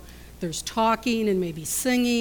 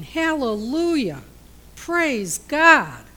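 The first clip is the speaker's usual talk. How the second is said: loud joyful shout, rising high; crowd shouting praise; 5 semitones higher, 6 dB louder, slower than usual. Retold or imitated. Preacher voicing the crowd on the road, joyful shout. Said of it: "People are shouting".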